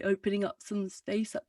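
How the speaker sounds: muffled, yawny resonance; muffled low larynx. Shown as a demonstration. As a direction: speak with the larynx held down. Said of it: "quite muffled and I don't sound very bright".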